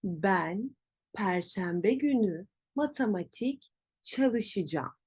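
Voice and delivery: çalışacağım as cha-lı-shı-jam; spoken contraction. Shown as a demonstration. Teacher sums up the form, çalışacağım as çalışıcam. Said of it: "şeklinde olacak".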